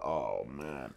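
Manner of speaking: low, soft droning robot voice; quick robot-voice impression of old tapes; robotic voice. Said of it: "when I play that stuff back".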